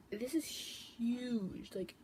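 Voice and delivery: very slow stretched amazement; drawn-out awe. Real, not acted. Vlogger marvelling at the palette size, slow awe.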